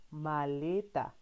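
slow, drawn out syllables; slow model word. Shown as a demonstration. Teacher to child, slow repeated model word. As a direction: stretch each syllable for copying. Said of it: "Repite conmigo".

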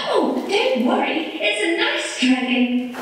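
high, soothing cat voice; calm him down sweetly as the cat; high cat voice reassuring the worried man. Acted. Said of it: "the cat assured him".

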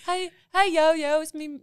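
put-on high-pitched Southern little-kid greeting; Southern kid impersonation. Friend retrying the kid's intro, giggly high Southern accent. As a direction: mimic a Southern kid, breaking into laughs. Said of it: "Do your impersonation of that one little kid".

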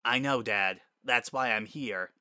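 restrained, level reply; tightly controlled. Acted. Daughter answers her excited father, tightly controlled. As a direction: hold it in as you answer. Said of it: "in a tightly controlled voice".

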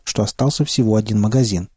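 ordinary delivery

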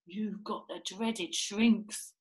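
slow, doom-laden pronouncement; ominous diagnosis. Acted. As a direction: dwell slowly on "dreaded shrinks". Mr Twit's mock diagnosis, escalated.

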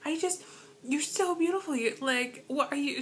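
high, gushing compliment in a put-on old lady voice. Miss Rita asking what she is, high doting voice. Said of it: "She's like".

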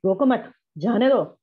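acted anger, मत joined to रोको, pause before जाने दो; angry. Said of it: "गुस्से में बोल रहे हैं".

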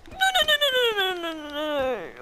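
crying out no, high; frantic. Real, not acted. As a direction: wail in panic. Cry heard, panic.

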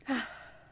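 airy voiceless exhale; breath demonstration. Shown as a demonstration. Guide showing another breath, airy sigh. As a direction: breathe out audibly in one sigh. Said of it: "Another one".

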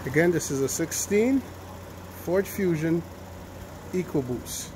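muffled through a face mask; speaking through a mask. Real, not acted. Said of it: "Sorry if I sound muffled".

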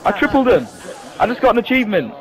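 excited boast. Real, not acted. Celebrating a triple kill.

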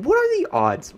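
"what are the odds?" pitched high in disbelief; incredulous. Real, not acted. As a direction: squeak it out in disbelief. Repeated bad luck, incredulous.

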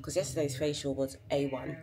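talking with a retainer in; retainer-muffled speech; wearing a retainer. Real, not acted. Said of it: "Sorry, I sound funny".

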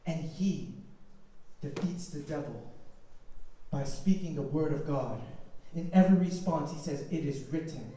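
low, soft, measured telling; hushed solemnity. Real, not acted. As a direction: drop to a grave hush and let pauses sit.

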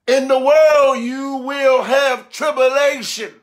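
slow, weighty proclamation; emphatic scripture preaching. Real, not acted. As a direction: declaim the verse with drawn-out key words. Declaims scripture to congregation.

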